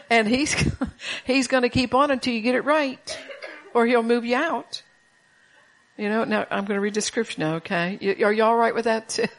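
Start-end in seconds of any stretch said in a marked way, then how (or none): 0.1-4.8 laughing. Real, not acted. Preacher laughing at his own joke.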